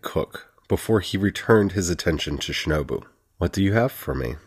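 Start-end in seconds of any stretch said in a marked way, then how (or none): 3.4-4.4 the word me gently leaned on, a touch of weight; slight extra weight on me; subtle stress on me. A narrator's reading. Abbott asking Shinobu, me gently leaned on. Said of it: "He subtly stressed the word me".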